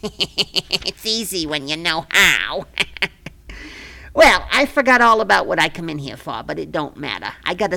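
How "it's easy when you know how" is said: slow, smug laugh through the words; gloating chuckle. Acted. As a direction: savor the win with a laugh. Gloating over ruined dream.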